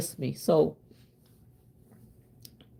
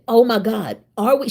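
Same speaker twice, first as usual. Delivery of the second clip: retold surprise; 4 semitones higher than usual. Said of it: "I said".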